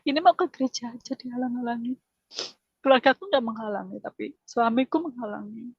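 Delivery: high, choked-up voice with long pauses; tearful retelling. Retold or imitated. Wife recalling her prayer to God to go to church, tearful. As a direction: recount the prayer on the edge of tears. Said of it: "Saya nangis".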